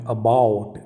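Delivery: lingering "ow" glide in "about"; pronunciation model. Shown as a demonstration. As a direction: draw out the "ow" in "about". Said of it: "यहाँ पे sound आ रहा है".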